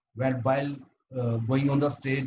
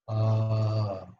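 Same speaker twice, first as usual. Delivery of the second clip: long, low, level "uh" with a slack jaw; loose open-mouthed "uh"; 4 semitones lower than usual. Shown as a demonstration. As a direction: hold a relaxed vocal-exercise "uh". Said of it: "so open your mouth and shakings".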